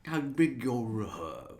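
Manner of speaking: lightly voiced alien, pocketbook whispered; a hint of a sly alien, whispering pocketbook; imitating a character. Fan quoting the saber dart scene, mild alien voice.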